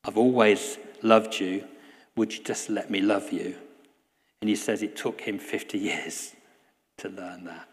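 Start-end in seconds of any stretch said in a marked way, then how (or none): 0.0-3.5 tender whisper. Retold or imitated. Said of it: "whispering this".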